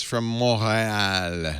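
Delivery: Montreal with a French r and silent t, drawn out; French-style Montreal. Shown as a demonstration. Host introducing a guest from Montreal, French pronunciation. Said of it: "as some people say".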